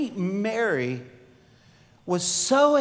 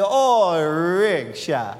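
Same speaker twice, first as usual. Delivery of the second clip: Cajun mama; 3 semitones lower, 4 dB louder, much slower than usual. Retold or imitated. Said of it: "I know she's gonna say".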